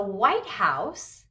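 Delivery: slow "White House", stress on WHITE; compound noun stress. Shown as a demonstration. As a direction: stretch it out, main weight on "White" in "White House". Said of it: "this is a compound noun".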